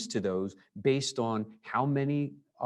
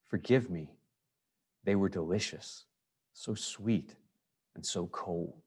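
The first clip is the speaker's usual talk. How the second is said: reading the poem aloud; 3 dB quieter than usual. Shown as a demonstration. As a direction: let the lines breathe, gently. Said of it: "So it goes like this".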